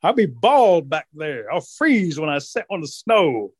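mildly put-upon rabbit; fretting rabbit. Acted. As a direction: drag out the key words, fretting. Rabbit frets about losing fur.

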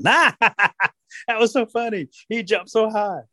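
high, gleeful rabbit voice; acted giggly glee; giggling rabbit. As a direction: draw it out high, tickled by the prank. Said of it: "g-, giggling".

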